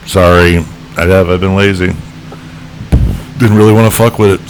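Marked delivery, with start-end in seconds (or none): 3.4-4.5 burping the words. Real, not acted. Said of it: "Sorry, beer burp".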